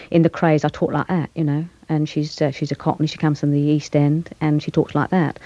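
East End Cockney demo; Cockney accent. Shown as a demonstration. Actress showing the interviewer her film accent, in Cockney. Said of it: "I'll do a bit for you in Cockney".

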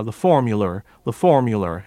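formula with a hard forced R; R-heavy Appalachian formula; forced R's. Shown as a demonstration. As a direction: lean hard on the R in formula, ending "-ler". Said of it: "the forced R's in".

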